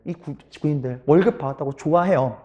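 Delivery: ordinary delivery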